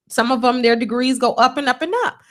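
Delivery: ordinary talk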